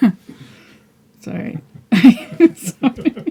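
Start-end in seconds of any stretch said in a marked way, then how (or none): 2.6-3.3 laughing, apologetic tone. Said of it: "Okay, stop laughing".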